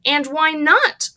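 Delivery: high, loud, slow shriek. Acted. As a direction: demand an answer. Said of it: "shrieked Missus Gloop".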